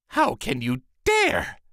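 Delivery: a stern sorceress, each word weighed; angry sorceress. A narrator's reading. Sorceress confronting the thief in her garden, angry and slow. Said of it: "with an angry look".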